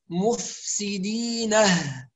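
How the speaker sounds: مفسدينه with a pausal ه; ha of sakt. Shown as a demonstration. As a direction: add the breathy ه at the end of مفسدينه. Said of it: "بهاء السكت".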